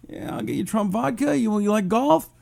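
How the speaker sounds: a hammed-up hint of Trump; bad Trump impression. Host plays Trump asking Putin a favor, bad Trump impression. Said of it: "I don't do a very good Trump".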